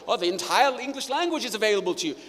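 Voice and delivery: quick, airy imitation of a teen; a hint of a cheeky teen brushing it off; breezy mock quote. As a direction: toss it off lightly and fast. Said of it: "push back in a whole variety of ways".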